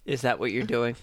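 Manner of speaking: lightly voiced character, low and dry; Waltz. GM as Waltz answering a stretching agent, low voice. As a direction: drop the pitch for an unimpressed question. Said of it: "You hear Waltz's voice".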